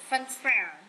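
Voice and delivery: FUNfair, high start and a fall; stress on first syllable. Shown as a demonstration. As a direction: hit the FUN in Funfair. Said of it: "Nhấn âm đầu". (nhấn mạnh âm đầu: FUNfair)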